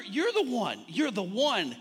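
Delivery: "one" hit hard as if capitalised; emphatic weight on "one"; stress on ONE. Shown as a demonstration. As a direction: punch "one" like it has a capital O. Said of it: "capital O".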